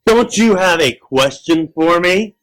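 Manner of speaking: high, slow creature questioning. Acted. Creature moving toward the child, slow monster voice.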